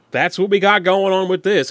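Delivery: hint of Boston accent. Wrapping up the prop tour, light Boston accent. Easing into his earlier Boston catchphrase.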